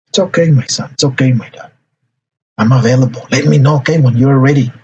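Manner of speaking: reassuring parent. Shown as a demonstration. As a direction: give the teenager room. Parent reassures withdrawn teenager.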